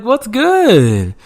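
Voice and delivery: high, cartoonish dog voice; dog greeting a neighbor, high and goofy; voicing the dog. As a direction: give the dog a silly high voice. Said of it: "He was like".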